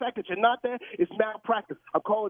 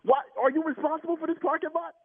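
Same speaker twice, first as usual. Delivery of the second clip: angry. Real, not acted. Victim berating the manager.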